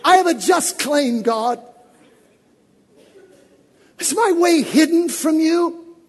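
anguished complaint building to a shout; complaining believer. Retold or imitated. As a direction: plead with God as if betrayed. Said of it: "I only say that".

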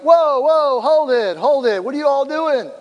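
high urgent "whoa", then easing down; acted alarmed halt. Pastor calming a warring couple by phone, mock-alarmed halting.

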